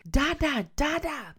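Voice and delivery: a hint of a child's high-pitched babble; imitating toddler Maddie. Sister's toddler repeating a word in bed, lightly imitated child voice. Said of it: "Maddie keep saying".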